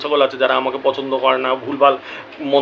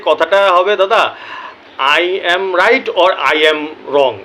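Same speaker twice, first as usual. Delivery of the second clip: slow correction; much slower than usual. Retold or imitated. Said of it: "তো সে বলেছে যে".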